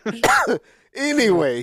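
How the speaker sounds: laughing, slow and high. Real, not acted. Laughing, moving on.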